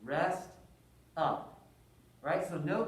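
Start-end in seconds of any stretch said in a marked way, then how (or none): 0.0-1.5 spoken aloud, clearly voiced; louder. Shown as a demonstration. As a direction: say it out loud for all. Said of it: "I'm gonna say it louder".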